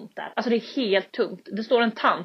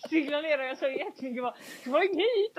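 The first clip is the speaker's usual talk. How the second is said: giggling through it; laughing; 5 semitones higher, 4 dB quieter than usual. Real, not acted. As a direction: tell it while laughing. Vinkar kompisen till gaten.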